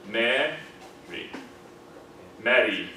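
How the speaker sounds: Mary syllable by syllable, ending on a bright E; Mary with plain E. Shown as a demonstration. Teacher demonstrating Mary for the class. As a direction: split Ma-ry then say Mary whole. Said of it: "preceding vowel is stressed".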